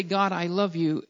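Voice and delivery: low, quiet heartfelt devotion; sincere. Acted. Preacher models loving words to God, sincere and hushed. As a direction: say it softly from the heart. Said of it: "coming out of a genuine, sincere heart".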